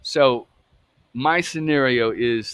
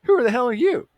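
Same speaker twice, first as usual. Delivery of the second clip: high-pitched mocking taunt of a powerful abuser; a man in power daring a kid to tell, high and mocking; 10 semitones higher, faster than usual. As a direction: sneer it down at a scared child, voice pitched way up. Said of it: "And he was probably told that".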